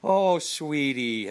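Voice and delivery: put-on a mother comforting her child; tender sympathy. Wife finding the haircut, a slow tender sigh. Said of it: "you hear just my wife go".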